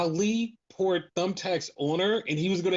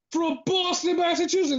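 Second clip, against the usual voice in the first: ring announcer; 10 semitones higher than usual. Retold or imitated. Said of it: "Then it was like".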